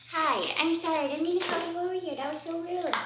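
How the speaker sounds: high, fast, sweetly apologetic put-on voice; high, prim apologetic voice; mock polite apology. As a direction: sweet-talk an imaginary shop assistant. Apologizes to an imagined person.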